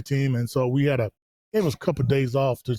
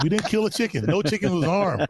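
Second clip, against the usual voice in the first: laughing denial; 3 semitones higher than usual. Retold or imitated. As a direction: protest through laughter. Defending himself, laughing.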